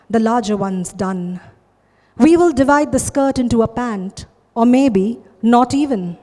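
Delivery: emphatic spoken-word poem, phrase by phrase; poetry recitation. Acted. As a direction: lift each stanza's opening, then let it settle into deliberate pauses. Recites own poem, Skirt.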